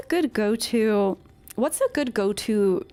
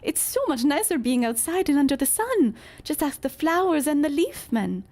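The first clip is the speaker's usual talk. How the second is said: pixie npc; 5 semitones higher than usual. Acted. Reading pixie NPC lines.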